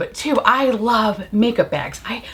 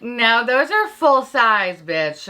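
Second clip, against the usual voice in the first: higher, drawn-out imagined retort; mock correction; 3 semitones higher, much slower than usual. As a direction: play a viewer slowly setting her straight. Imagined viewer correcting her.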